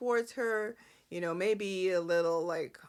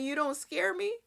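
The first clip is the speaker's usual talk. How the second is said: mock scared; 7 semitones higher than usual. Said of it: "and then you're telling".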